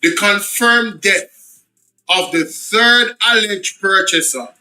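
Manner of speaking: slow, deliberate reading; slowed reread. Shown as a demonstration. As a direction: spell it out slowly, word by word. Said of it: "let me slow down".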